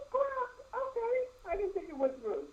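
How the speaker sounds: distant, faint on the phone; talking away from the mic; phone held away. Real, not acted. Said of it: "you sound like you're far, far away from the phone".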